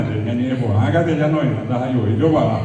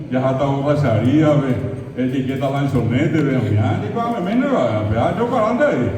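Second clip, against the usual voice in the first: lively mixed Portuguese and Guaraní; border jopara; 3 dB louder than usual. Retold or imitated. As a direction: rattle off the border mix. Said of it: "andamos por ahí". (mezcla fronteriza animada)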